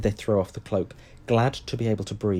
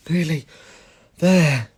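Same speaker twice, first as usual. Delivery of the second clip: panted; 7 semitones higher, 9 dB louder, slower than usual. A narrator's reading. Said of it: "Harry panted".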